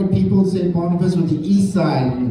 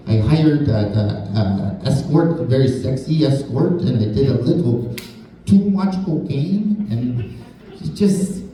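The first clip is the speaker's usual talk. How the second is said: mock French-accented English. Comic imitates a French speaker doing his joke, light French accent. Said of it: "he'd be sounding like this".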